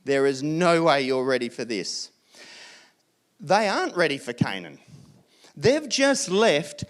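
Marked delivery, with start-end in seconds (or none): 0.0-2.1 put-on a touch of God calming eager children; God cautioning. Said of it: "And God's like".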